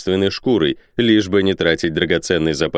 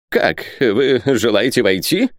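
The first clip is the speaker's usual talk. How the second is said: slow, raised, halting question; suspicious exclamation; 4 semitones higher, slower than usual. A narrator's reading. Isaac to visitors wanting to enter, suspicious. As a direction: balk slowly at letting them in. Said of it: "воскликнул Исаак, даже не пытаясь скрыть".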